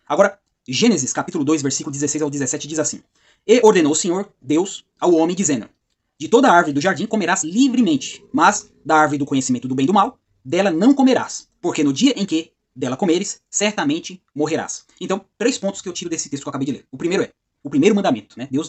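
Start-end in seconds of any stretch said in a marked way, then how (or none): 3.5-14.8 slow, emphatic Bible reading; measured, declaimed scripture. Acted. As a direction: read the verse aloud with solemn, spaced-out weight. Reads scripture verse aloud.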